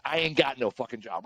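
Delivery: sly, cocky delivery of the line; a little stank. Shown as a demonstration. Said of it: "Put a little stank on it".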